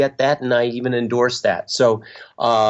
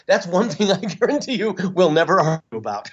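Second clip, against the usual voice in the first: laughing; 5 semitones higher than usual. Real, not acted. Laughs while promising agreement.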